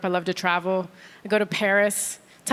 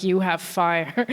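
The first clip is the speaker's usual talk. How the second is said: seductive Frenchman; 5 semitones lower, much slower than usual. Retold or imitated. Parisian man approaching a stranger, low and slow. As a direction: purr it like a smooth Parisian. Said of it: "be like".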